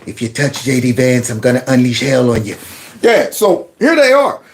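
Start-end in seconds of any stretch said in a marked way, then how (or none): 0.0-2.6 big man threat. Retold or imitated. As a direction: growl the threat like a hulking enforcer. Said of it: "they got the big man back here going".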